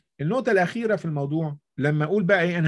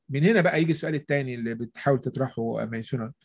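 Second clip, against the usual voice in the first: ordinary talk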